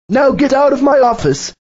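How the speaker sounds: barked order to leave; manager's order. Acted. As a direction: throw him out of the office. Manager dismisses Brian.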